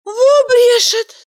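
high, slow astonished gasp of disbelief; stunned indignation, high and drawn out; amazed. A narrator's reading. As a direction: drag it out in shock. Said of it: "поразилась Валерия".

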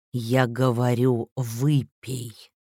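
slow, menacing hiss. Acted. President hisses an order at her to drink. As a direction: press it out through the teeth. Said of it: "прошипел он".

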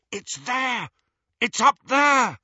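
high, rising excited cry; excited shout. Acted. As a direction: point it out thrilled. Harry spots the cup.

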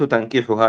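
تنكحها with an "a" after the ta, tankihuha; fatha on the ta. Shown as a demonstration. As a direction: say تنكحها opening with "tan". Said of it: "بفتح التاء".

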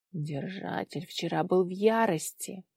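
plain reading voice

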